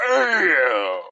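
loud, drawn-out falling cry; exclaimed dismay. Retold or imitated. Telling how the other person clicked off, exclaimed dismay. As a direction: wail it out in retold disbelief. Retells reaction to the call dropping.

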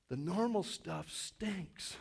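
"The normal stuff stinks" drawn out slowly, leaning on "normal"; slow and soft. Shown as a demonstration. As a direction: linger on each word quietly. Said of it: "Let me say that again".

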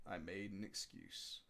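a guilty murmur to the audience; whispered aside. Shown as a demonstration. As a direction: drop to a sly confiding hush. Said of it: "repeat for effect".

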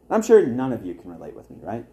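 sarcastic. Acted. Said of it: "That's sarcasm".

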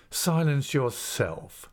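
slow, drawn-out defiant comeback; insolent retort. Acted. Pupil turning red answers his master back, slow and insolent. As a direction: throw the order back slowly, leaning on it.

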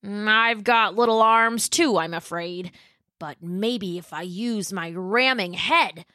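slow, lightly voiced dinosaur boy; a hint of a slow, easygoing dinosaur; Pat the dinosaur.

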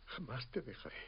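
tender murmur. Acted. Husband repeating his promise to his wife, hushed and tender. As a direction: let it fall softly to her.

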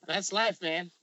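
laughing through the words; chuckling that's life. Real, not acted. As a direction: laugh it out, amused. Laughing while answering.

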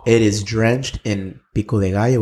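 slow, sultry food description. Pretend. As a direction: linger on every word like a seduction. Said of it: "Let's say it in a sultry voice".

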